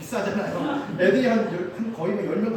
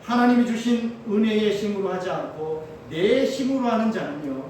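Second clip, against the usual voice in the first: ordinary talk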